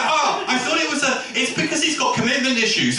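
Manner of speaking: high-pitched excuse-making; upset sad girl. Acted. Sad girl excusing her ex to friends, high and upset. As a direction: plead his case in a high voice. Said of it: "And she was like".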